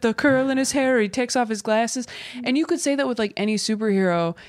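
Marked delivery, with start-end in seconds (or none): 0.0-2.1 raised-pitch disbelieving nitpicker; mock incredulity. Critics mocking the glasses disguise, imitated incredulity. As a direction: mimic a doubter poking holes in the plot.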